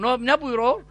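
put-on light Kilis-style Turkish accent; Medineli Hacı Osman. Preacher imitating an old hacı's speech, light regional Turkish accent. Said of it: "Öyle konuşuyor ya Medineli Hacı Osman".

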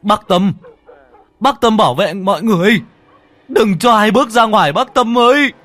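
high, loud calling yell; shouting from outside. Acted. Ông Đoàn outside calls to bác Tâm inside, shouting. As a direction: holler urgent orders to someone indoors. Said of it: "đứng ngoài mà gào vọng vào".

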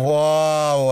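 howling wow. Acted. Ilona howling with delight at the concert, loud. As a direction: let out a wild whoop. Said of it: "Она взвыла".

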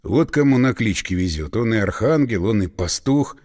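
low, muttered annoyance, inward; muted irritation. A narrator's reading. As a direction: grumble it under the breath. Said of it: "с глухим раздражением подумал".

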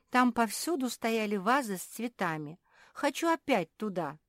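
high-pitched wistful whine; whimpering. A narrator's reading. Naretta missing the room with flowers, whimpering. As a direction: whine to go back. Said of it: "захныкала Наретта".

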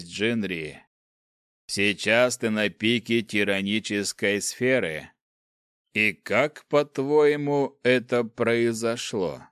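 slow, cold dark lord voice; lightly voiced menacing ruler; menacing overlord. Overlord speaks to hero.

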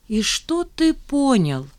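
slow, haughty question. Acted. Zhanna challenging Remizov, haughtily. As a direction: look down on him as you ask. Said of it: "надменно спросила Жанна".

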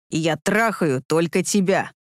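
low, slow mild growl. A narrator's reading. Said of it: "рыкнул он".

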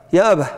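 "أبه" ending in an audible h, "yaabah"; dialect final h. Shown as a demonstration. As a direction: close "أبه" on a breathed h. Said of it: "هذه الهاء هي هاء ماذا؟".

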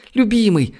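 high, impulsive woman's outburst; blurted out. A narrator's reading. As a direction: blurt it out high, overcome with joy. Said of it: "выпалила Ольга". (выпалить высоким голосом)

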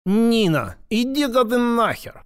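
put-on high, slurred little-girl snap; tipsy girlish brush-off; drunk childlike voice. A narrator's reading. Drunk girl telling Nina off, childlike. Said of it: "почти детский голос".

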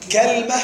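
كلمة as kal-ma, two syllables; second dialect form. Shown as a demonstration. Teacher lists three variants of the word, كلمة pronounced kalma. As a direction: say كلمة with a on kāf and vowelless lām, kalma. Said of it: "عندنا ثلاث لغات في كلمة".

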